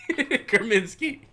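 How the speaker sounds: squeaky high, slow and loud Kerminsky; high silly name. Acted. Laughing, voiced Kermit-like.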